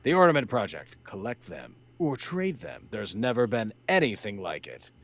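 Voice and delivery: vintage toy commercial read; announcer voice. Pretend. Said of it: "I'll read it in the announcer voice".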